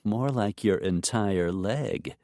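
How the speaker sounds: slow, sweet deadpan jab; sugar-coated teasing reply; sweetly. Acted. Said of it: "Kendra replied sweetly".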